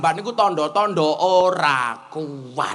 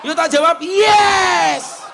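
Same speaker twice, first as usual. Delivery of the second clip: mock protest; 13 semitones higher, 7 dB louder than usual. Preacher protesting loudly.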